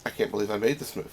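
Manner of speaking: low, hushed, quick mumble; mock cowering. Travolta in the corner watching his film, cowering. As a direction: shrink away and say it under your breath. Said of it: "Cowering away, going".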